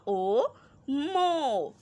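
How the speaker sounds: put-on slow, drawn-out letter by letter reading for children; slow spelling drill. Shown as a demonstration. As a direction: sound out each letter slowly, then blend. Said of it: "आप लोगों ने भी ऐसे पढ़ना है".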